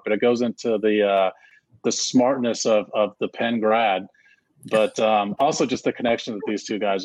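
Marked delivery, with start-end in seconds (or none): 0.0-4.1 through gritted teeth. Acted. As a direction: grudgingly force it out through teeth. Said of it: "talk through my teeth to say this part".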